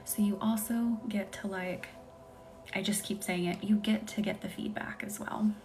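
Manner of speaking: hushed, breathy bedtime whisper-talk. Real, not acted. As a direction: lull the viewers toward sleep. ASMR live, soft whispery talk.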